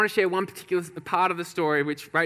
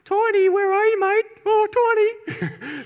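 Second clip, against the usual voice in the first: high, loud teasing holler; searching call; 6 dB louder, slower than usual. Retold or imitated. Firefighters go looking for missing mate, high mock searching calls. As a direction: sing out loudly as if hunting through rooms. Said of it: "They go searching for him like this".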